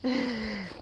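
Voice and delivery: very high, squeaky pet voice; cutesy dog voice begging for treats; voicing the dog. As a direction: put words in the puppy's mouth. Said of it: "Dookie says".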